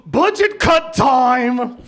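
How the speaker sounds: gleeful villain. Acted.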